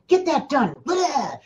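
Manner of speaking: high, pushy mock yell at you; hammed-up scolding shout; mock scream. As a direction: bark the order like a nagging world. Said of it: "screaming at you".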